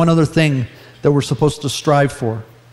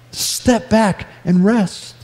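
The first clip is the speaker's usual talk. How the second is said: gentle, slow counsel; 5 semitones higher, much slower than usual. Acted. God's gentle counsel quoted.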